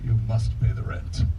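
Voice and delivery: lightly voiced menacing villain; a hint of a melodrama baddie; sneering panto villain. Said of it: "A villain".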